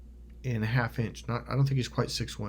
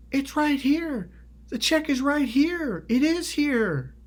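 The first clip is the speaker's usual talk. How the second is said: high, drawn-out panicked pleading; freaking out; 14 semitones higher, slower than usual. Retold or imitated. Frightened woman showing him the check, imitated freaking out. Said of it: "and she's freaking out".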